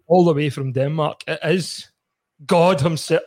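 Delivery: grand ring-announcer build-up. Pretend. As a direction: announce the star guest grandly. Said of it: "And then saying".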